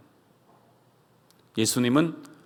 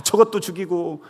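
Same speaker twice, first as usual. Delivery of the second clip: raised, grumbling curse; vengeful inner cry; 3 semitones higher than usual. Retold or imitated. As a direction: mutter death wishes at enemies. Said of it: "막 이러면서". (원수를 향한 속마음의 저주)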